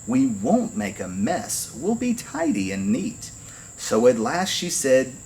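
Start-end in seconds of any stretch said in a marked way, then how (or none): 0.0-3.3 very sweet. A narrator's reading. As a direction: promise sweetly, coaxing a parent. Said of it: "then said very sweet".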